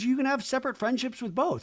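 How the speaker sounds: put-on high-pitched supportive girlfriend; mock-encouraging high voice. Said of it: "She's being encouraging".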